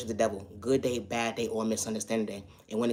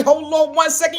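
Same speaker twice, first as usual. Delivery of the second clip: "Hold on one second" shouted high and loud; "Hold on one second" blasted high as an outraged interruption; loud exclamation; 12 dB louder than usual. Retold or imitated. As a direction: call out "Hold on one second" at the top of the voice, pitched way up. Loud acted version of the catchphrase.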